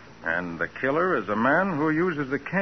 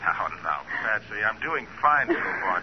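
soothing; 4 semitones lower, 3 dB quieter than usual. Acted. Nick soothes frightened Patsy.

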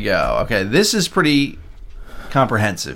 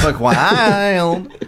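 soft feminine male voice; 6 semitones higher than usual. Retold or imitated. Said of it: "Chad's weird effeminate voice say freaking buck".

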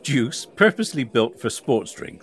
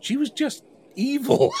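laughing; 13 semitones higher than usual. Real, not acted. Laughing while mocking the instructor.

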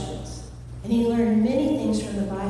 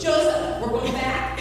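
frantic; 3 semitones higher than usual. Acted. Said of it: "Mary's starting to get frantic".

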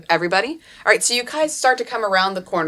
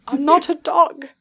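higher-pitched put-on protest; insistent protest; 8 semitones higher than usual. GM as Stuart insisting he is no dog, protesting. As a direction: repeat it higher, as an indignant objection. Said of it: "he keeps saying".

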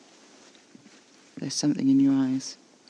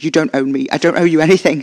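furious defiance, voice raised; angry shout; 8 dB louder than usual. Acted. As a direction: snap it out loud and furious. Shouting at Naj.

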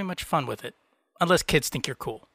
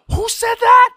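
sudden booming shout, much higher; really loud; 10 dB louder, slower than usual. Pretend. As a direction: blast it out to challenge the whole room. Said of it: "and then really loud go".

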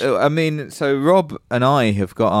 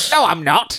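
put-on old man voice; 6 semitones higher than usual. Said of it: "You're the old man voice".

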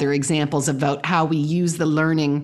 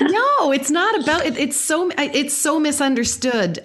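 emphatic no; 10 semitones higher than usual. Real, not acted. Emphatic correction.

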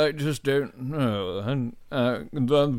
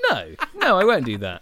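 laughing mock refusal. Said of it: "kinda like a".

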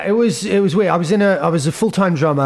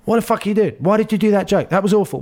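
higher mock-indignant booker; agent's outburst; 7 semitones higher, faster than usual. Comic retelling his agent's reaction, higher mock outrage. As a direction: snap back as the shocked agent. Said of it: "she was like".

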